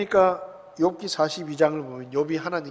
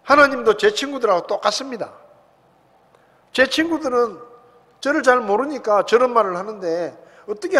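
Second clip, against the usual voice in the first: louder, wounded demand for fairness; Job's raised grievance, fading at the end; indignant questioning; 2 semitones higher, 5 dB louder than usual. Retold or imitated. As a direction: press God like a hurt friend. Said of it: "이렇게 또 물어요".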